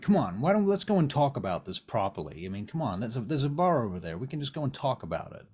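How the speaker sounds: loud opening, then coaxing; cajoling plea. Acted. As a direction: talk them round, insistently. Vern urges Abby to talk.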